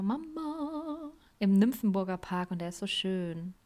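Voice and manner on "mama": singsong call. Real, not acted. Calling to her mother playfully.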